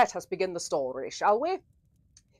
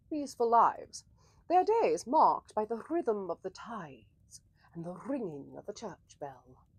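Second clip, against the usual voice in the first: hushed story narration. Acted.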